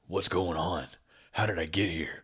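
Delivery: lightly voiced gruff workman; mildly gruff, only a little off your own voice; gruff worker. Sending up the game's gruff worker hero, lightly gruff. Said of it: "He's just a gruff worker".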